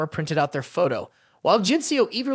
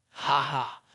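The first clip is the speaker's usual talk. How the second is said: laughing; 6 semitones lower, 6 dB quieter than usual. A narrator's reading. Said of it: "laughing loudly".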